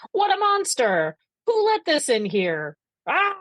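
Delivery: high-pitched opening, then mock alarm; mock exclamations. Mel exclaiming inside his house, mock panicked outcries. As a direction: imitate someone crying out at a pest. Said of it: "like, exclaiming things like".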